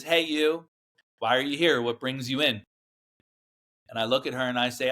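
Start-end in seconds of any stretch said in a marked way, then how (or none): 0.0-2.6 lightly imitated joyful welcome; a touch of delighted cheer; joyful greeting. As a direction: welcome them in like a best friend, higher at first. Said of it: "joyful voice that I've ever heard".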